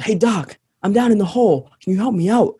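calling up from a hole. Acted. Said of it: "the guy in the hole shouts up".

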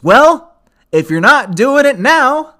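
loud, high challenging outburst; emphatic. Real, not acted. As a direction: call them out forcefully.

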